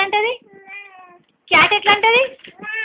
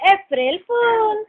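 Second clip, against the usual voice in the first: slow prompt; 3 semitones higher, slower than usual. Shown as a demonstration. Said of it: "mummy, April fool అని".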